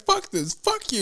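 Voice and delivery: very high-pitched panicked cursing; retold panic. Man running from the trash can, reenacted panic. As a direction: reenact a freaked-out retreat, pitch way up.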